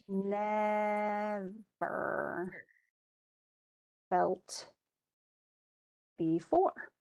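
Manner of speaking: "Never felt before" with long pauses between words; slow scanned reading. Shown as a demonstration. Teacher reading slowly word by word to mark the stresses. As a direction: space each word out on the beat. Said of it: "So with fantastic".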